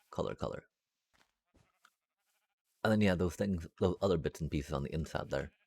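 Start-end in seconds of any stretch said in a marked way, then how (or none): 0.1-0.6 whispering. Real, not acted. Whispered to self.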